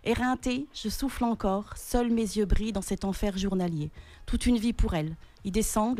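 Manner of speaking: measured, even poetry recitation; composed literary reading with pauses between phrases; poem reading. Acted. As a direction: read your own poem aloud, steadily, line by line. Reads her own poem aloud.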